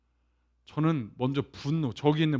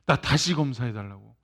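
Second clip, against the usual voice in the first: denial; 3 semitones lower, 3 dB louder than usual. Retold or imitated. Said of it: "막 부인한다는 거".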